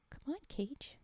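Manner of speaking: soft whispered urging; whispering. Real, not acted. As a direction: whisper it as a nudge. Whispered encouragement.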